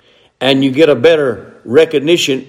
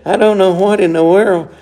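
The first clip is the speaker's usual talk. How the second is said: whiny preacher; 5 semitones higher than usual. Retold or imitated. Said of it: "Used to hear a preacher said".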